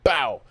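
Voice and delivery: sudden loud "bow" impact; imitated punch noise. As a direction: punch out a mock blow sound.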